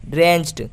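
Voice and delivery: ड्रेंच्ड ending in an unvoiced T; final D as T. Shown as a demonstration. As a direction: say ड्रेंच्ड as "drencht". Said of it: "डी को हम ट पढ़ेंगे". (ड्रेंच्ड के अंत में ड की जगह ट)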